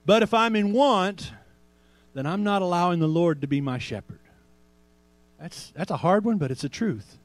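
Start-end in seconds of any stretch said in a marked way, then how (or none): 0.0-4.2 slow declaration. Shown as a demonstration. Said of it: "We can say it like this".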